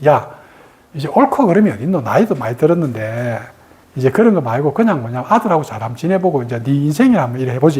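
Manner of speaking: retold friendly advice, dropped in lightly; gentle nudge. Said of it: "내가 그래 한번 그 넌지시".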